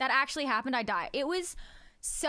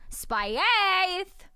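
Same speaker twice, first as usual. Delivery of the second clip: exclaim; 6 semitones higher, 6 dB louder than usual. Real, not acted. Game word exclaimed.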